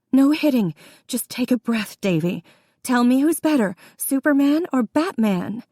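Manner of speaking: urgent high redirect. A narrator's reading. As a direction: hold him and steer his mind. Sister restrains, redirects.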